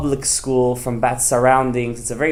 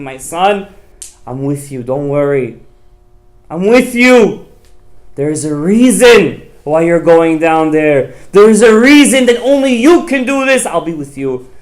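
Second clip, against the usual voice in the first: high loud reassuring mother voice; lightly voiced comforting mother; 3 semitones higher, 9 dB louder than usual. Mother comforting Yosef from the grave, a loud reassuring voice. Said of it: "she says to him".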